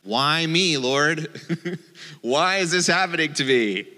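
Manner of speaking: hammed-up cry of "why me"; mock lament. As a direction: play the exasperated believer. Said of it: "asked the Lord this kind of question".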